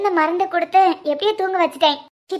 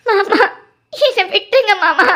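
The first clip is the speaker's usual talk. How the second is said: tearful plea; slower than usual. Acted. Captive begs to be released.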